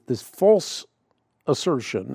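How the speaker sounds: "false" drawn out slowly and set apart; stress on false. Real, not acted. Host correcting a mistaken belief, stress on "false". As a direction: lean hard on "false", then pause. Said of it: "real emphasis on that word false".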